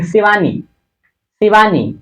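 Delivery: शिवानी with a short final ee; don't stretch the नी in शिवानी; short final sound. Shown as a demonstration. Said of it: "नी में short sound का use". (शिवानी, नी की छोटी ध्वनि)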